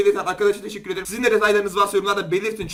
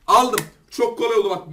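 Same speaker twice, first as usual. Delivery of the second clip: triumphant; 2 semitones higher, 6 dB louder than usual. Real, not acted. Winning the match.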